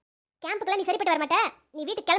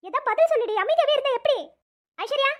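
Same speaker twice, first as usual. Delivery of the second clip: urging; 6 semitones higher, 4 dB louder than usual. Acted. Friend pressing silent crying girl.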